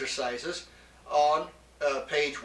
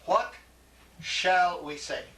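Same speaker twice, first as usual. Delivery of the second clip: slow, deliberate, each word set apart; slow teaching demo; 2 semitones higher, slower than usual. Shown as a demonstration. Teacher showing the Greek interrogative to a student, slow and deliberate. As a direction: spell the question out slowly for the student. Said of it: "So here's your interrogative".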